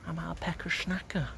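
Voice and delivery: high, softened teasing voice; winding-up taunt. Retold or imitated. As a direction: tease him in a small, put-on high voice. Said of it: "we'd always wind Barry up".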